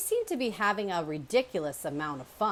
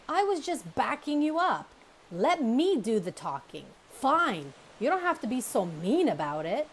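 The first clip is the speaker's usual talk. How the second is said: bickering; 6 semitones higher, 5 dB louder than usual. Acted. Bears bickering.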